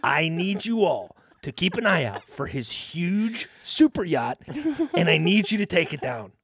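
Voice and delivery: low, fast commander's address; brief the troops like a general; rallying speech. Pretend. Addressing orcas like a leader.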